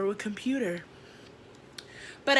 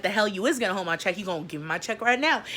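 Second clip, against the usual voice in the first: mock angry demand; 3 semitones higher, 5 dB louder than usual. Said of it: "And I was like".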